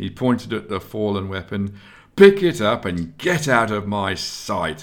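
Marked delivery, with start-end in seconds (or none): 2.2-4.8 contemptuous, scornful, loud, spat-out delivery. Esgar dismisses Nelson, pointing at the fallen weapon; spat scornfully. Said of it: "he spat".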